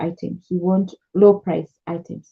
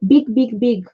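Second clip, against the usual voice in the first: higher, insistent "Big, big, big"; imitating broken English; 4 semitones higher, slower than usual. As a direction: copy the supplier's simple repeated words. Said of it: "you hear them saying".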